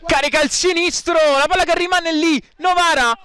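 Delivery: high, quick near-miss call; excited call. Real, not acted. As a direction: call the loose ball urgently.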